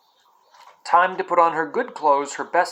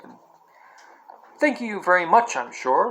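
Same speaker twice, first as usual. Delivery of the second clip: cockney cabbie. Acted. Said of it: "sharp, quick voice of a cockney".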